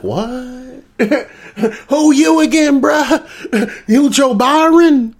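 high, incredulous who-are-you; mock disbelief. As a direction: act baffled by the caller, amused underneath. Acted Saudi snubbing Biden's call.

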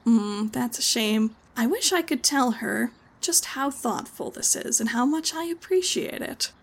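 tender, grateful hostess; touched Karen. Acted.

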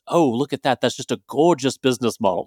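put-on lightly done Australian accent, barely shifted from his own voice; a self-mocking, half-hearted Australian wildlife-host gush; Steve Irwin impression. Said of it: "in my best Steve Irwin voice".

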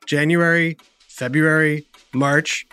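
months said with tongue held; holding tongue with fingers. Shown as a demonstration. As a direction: talk while gripping your tongue. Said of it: "keep holding your tongue".

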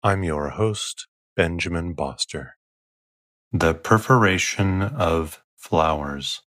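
soothing. Real, not acted. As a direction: lull them toward sleep. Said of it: "to bore you to sleep with my soothing voice".

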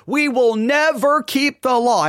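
never punched hard, said slowly; slow sermon emphasis on never; stress on never. Shown as a demonstration. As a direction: lean on the word never. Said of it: "And I stress that over".

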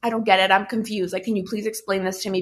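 retold calm plea, mildly understated. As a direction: ask it evenly, not yelling, softening toward the end. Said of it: "I'm being really calm".

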